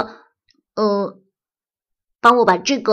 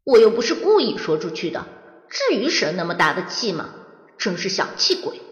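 sulky grumble; faster than usual. Acted. Grumbling inner thought.

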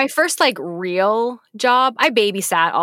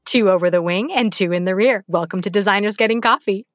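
flight attendant. Retold or imitated. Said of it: "You kinda sounded like a flight attendant".

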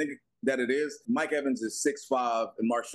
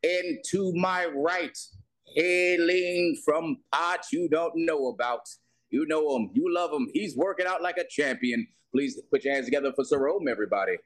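grand entrance announcement. Acted. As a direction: drag it out like a boxing announcer. Host introduces cohost like boxer.

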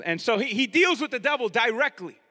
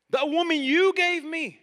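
"you" raised high and leaned on; stress on YOU; 6 semitones higher, 4 dB louder than usual. Acted. Adam blaming God once more, stressing "you". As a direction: throw the accusation onto "you", higher. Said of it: "Adam was blaming God".

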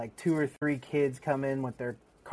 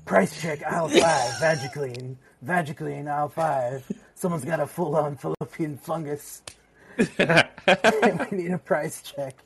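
a lightly voiced Hank mocking over the store PA; Hank's voice. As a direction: announce it like a smug store tannoy, with a touch of a put-on voice. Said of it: "I have to do it in my best way to have it done in his, uh, voice".

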